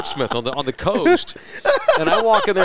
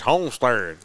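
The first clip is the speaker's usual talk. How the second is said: "Homestead" lower, in mock Cuban English; Cuban accent; 4 semitones lower, slower than usual. Cuban worker naming Homestead to a lost driver, thick Cuban accent. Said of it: "that Cuban accent kicked in".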